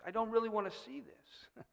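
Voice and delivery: softly voiced squeamish reluctance; mildly imitated unwillingness; reluctant. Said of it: "She expresses reluctance".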